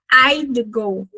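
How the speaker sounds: I'd go with I'd squeezed into one short syllable; I'd go, contracted. Shown as a demonstration. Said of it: "isso se contrai demais".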